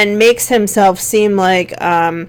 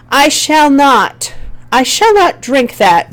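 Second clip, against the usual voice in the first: slow, lofty and prim; formal mock-proper; 5 semitones higher, slower than usual. Shown as a demonstration. Teacher contrasting formal and slang speech, slow and lofty. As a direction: say it like a stiff aristocrat.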